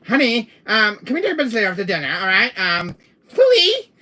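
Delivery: high, loud, rushed excuse; frantic fast excuse. Acted. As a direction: gabble it out to stall her. Stalling the wife.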